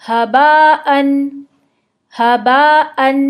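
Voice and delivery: हबाअन with a light breathy ह, slow. Shown as a demonstration. Teacher drilling Arabic ha, slow and light. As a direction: keep हबाअन's ह light, not exaggerated. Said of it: "Urdu की तरह ही".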